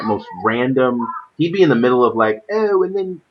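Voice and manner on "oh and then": high-pitched, excited mock caster call; Benson. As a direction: shout it high, dragging out the big line. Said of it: "when someone with a foreign accent says something".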